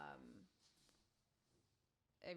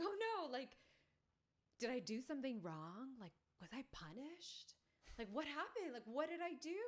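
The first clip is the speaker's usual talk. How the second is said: put-on worried little girl; 7 semitones higher, 4 dB louder than usual. Scared little girl worrying.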